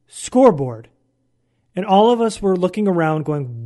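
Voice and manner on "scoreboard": put-on Vietnamese-accented "scoreboard" run together as one word; coach's accented "scoreboard". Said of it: "it sounded like".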